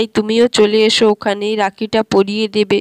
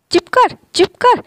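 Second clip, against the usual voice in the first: hush; 11 semitones higher than usual. Acted. Mother hushing crying child.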